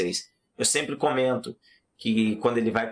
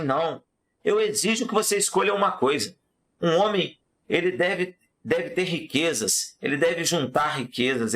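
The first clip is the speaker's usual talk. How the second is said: demanding king; 2 semitones higher than usual. Acted.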